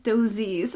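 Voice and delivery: "Dozies" copied as DOO-zeez; imitated Scottish pronunciation. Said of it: "really cute thing in Scotland that you say".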